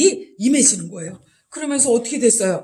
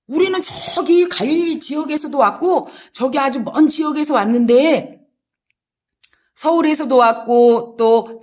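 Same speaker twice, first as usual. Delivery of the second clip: amazed crowd; 3 semitones higher, 5 dB louder than usual. Acted. Voices amazed crowd at Pentecost.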